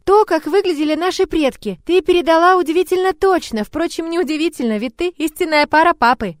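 put-on high, earnest child voice; little girl. A narrator's reading. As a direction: explain it with childlike certainty.

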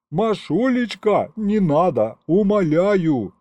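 high, slow, begging whine; pleading. Acted. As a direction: beg her desperately, dragging the words. Teodor fleht Mascha an.

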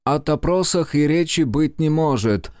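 put-on a clear Baltic-accented interjection. A narrator's reading. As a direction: cut in firmly in a Baltic accent. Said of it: "с заметным прибалтийским акцентом".

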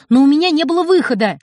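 put-on boy shouting back at mother. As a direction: yell in defence. Heated quarrel.

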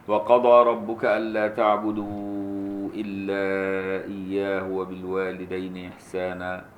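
slow melodic chanted recitation; Quran recitation. Acted. Teacher recites the passage for the student, slow chanted tajweed. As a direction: draw each phrase out in tajweed chant.

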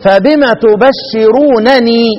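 slow تبشرونني with two nuns; original form. Shown as a demonstration. Teacher shows the original form slowly. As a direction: draw out تبشرونني, both nuns clear. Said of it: "أصل القراءة دي عند الإمام ابن كثير".

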